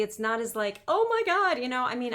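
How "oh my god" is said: squealed high and loud, hyped; a sudden high mock squeal; mock gushing. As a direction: gush like a hyped coach. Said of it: "It's not as sexy".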